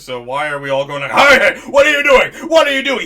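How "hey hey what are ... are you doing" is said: sharp raised shout, high pitched; calling out. Retold or imitated. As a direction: yell at the kid to stop. Calling out to the one kid.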